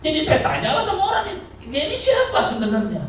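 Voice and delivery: loud, high, laughing through the words; can't hold back the laugh while telling it; high-pitched laughing retelling. Real, not acted. Laughing at the returning mourner.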